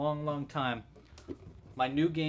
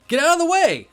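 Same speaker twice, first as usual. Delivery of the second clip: laughing shout; 12 semitones higher, 11 dB louder than usual. Real, not acted. Punchline of dino joke.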